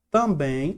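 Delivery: Também with its last syllable held as the strong one; sílaba tônica destacada. Shown as a demonstration. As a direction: stress the final BÉM of Também. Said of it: "já é a sílaba mais forte". (destaque o BÉM final de Também)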